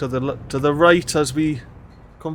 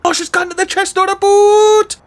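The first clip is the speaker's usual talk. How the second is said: much higher, louder exclamation of surprise; surprised outburst; 8 dB louder than usual. Real, not acted. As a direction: blurt it out, caught off guard. Surprise at citizen's route.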